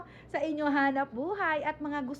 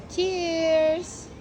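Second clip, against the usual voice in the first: loud, stretched-out toast; calling a toast; 2 semitones higher, 7 dB louder than usual. Real, not acted. Vlogger raising a toast at the party, long loud call. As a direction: draw it out and call it loudly.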